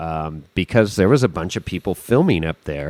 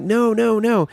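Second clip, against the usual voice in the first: retold urgent refusal; 14 semitones higher than usual.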